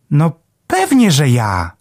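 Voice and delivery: high, chirpy little sparrow voice; perky small bird, beaming; sparrow Melek. A narrator's reading.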